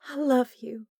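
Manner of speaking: high, tender declaration. A narrator's reading. Delaney telling Corbin she loves him, tender. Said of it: "she uttered".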